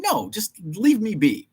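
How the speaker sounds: high whiny brush-off; high petulant imitation; mock annoyed shopper. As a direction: whine it away like a pestered shopper. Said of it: "I'm like".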